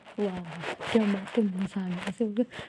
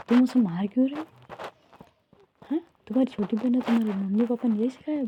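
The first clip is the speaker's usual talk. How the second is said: angry scolding; 3 semitones higher, 3 dB louder, faster than usual. Acted. Aayu scolds Raavi for hitting sister.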